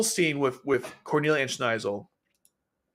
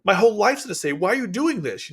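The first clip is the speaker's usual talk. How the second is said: mock panic; 7 semitones higher than usual. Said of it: "you're thinking".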